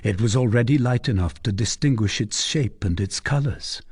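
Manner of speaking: usual speaking voice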